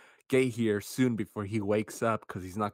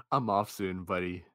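impatient dispatcher; 5 dB louder than usual. Retold or imitated. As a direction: rush the caller, clock-watching. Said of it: "going on her lunch break".

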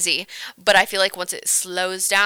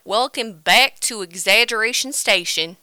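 hype intro; 5 dB louder, slower than usual. Pretend. Over-the-top show greeting.

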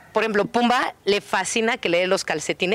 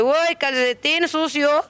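slow, higher playful dog voice; dog's thoughts; 5 semitones higher, slower than usual. Acted. Trainer voicing the dog deciding between sock and sausage, playful and slow. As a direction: voice the dog choosing the treat. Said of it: "el perro dice".

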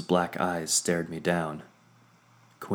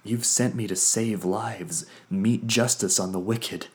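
rising indignation; 4 semitones higher, 4 dB louder than usual. Acted. Vondair pushing back, rising.

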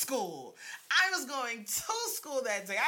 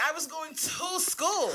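pleading protest; 6 semitones higher, slower than usual. Retold or imitated. Protesting to truancy officer.

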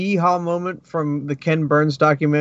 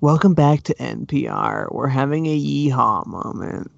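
lightly voiced public-radio presenter; mock public-radio host. Co-host parodying public radio listeners, mock presenter voice. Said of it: "like people that listen to P B S".

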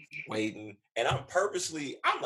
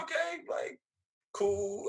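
high, uneasy okay; mock nervous okay; 13 semitones higher, much slower than usual. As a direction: sound awkward, voice jumping up. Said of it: "So I'm like".

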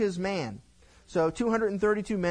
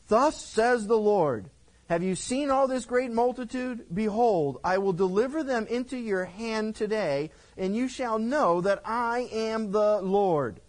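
slow, loud, higher declaring voice; solemn prophetic proclamation; 6 semitones higher, 5 dB louder than usual. Acted. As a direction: announce it like a prophet before the king. Prophet proclaims God's word.

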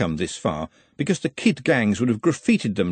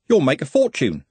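encouraging; 4 semitones higher, 3 dB louder than usual. Acted. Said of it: "said Trev encouragingly".

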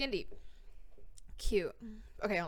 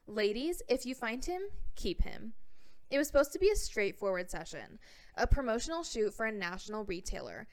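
put-on California accent. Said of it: "I have to read this with my California accent".

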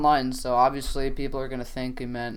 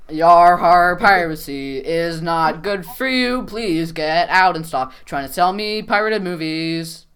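loud, slow hammed-up pirate; 4 dB louder, slower than usual. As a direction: bellow it like a cartoon pirate. Mock pirate scolding a seller.

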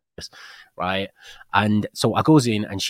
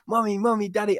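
imitating child; 11 semitones higher than usual. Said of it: "Alexis just said".

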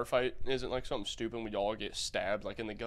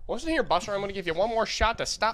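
higher, hammed-up old-school tough guy; mock tough guy threat; 7 semitones higher, 3 dB louder than usual. Friend plays a bar heavy threatening a loudmouth, hammy. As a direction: warn him off like a movie heavy.

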